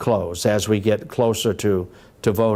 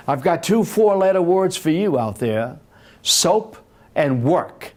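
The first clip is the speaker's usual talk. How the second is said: higher-pitched taunting politician, stretching the punchline; George Wallace; 6 semitones higher than usual. Retold or imitated. Politician answers a heckling crowd, taunting. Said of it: "in that Alabama accent".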